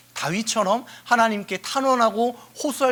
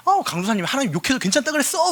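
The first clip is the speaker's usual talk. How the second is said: mock kid; 6 semitones higher, faster than usual. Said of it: "막 이러면서".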